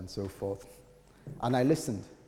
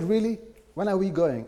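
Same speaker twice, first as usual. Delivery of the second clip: much higher, louder, delighted; eager wife; 9 semitones higher, 9 dB louder than usual. Retold or imitated. Wife hearing about Bristol, eager and delighted. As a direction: jump at the idea. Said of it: "She said".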